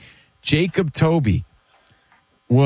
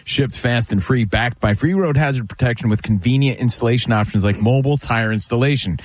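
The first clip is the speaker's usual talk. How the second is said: quick, lower-pitched sponsor read; 6 semitones lower than usual. Real, not acted. Radio host reading the Tire Rack sponsor spot, ad read.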